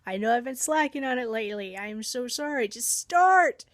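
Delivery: playful pleading with a stubborn car. Retold or imitated. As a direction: coax the car like a sweetheart, then plead. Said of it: "I'm pleading with my car".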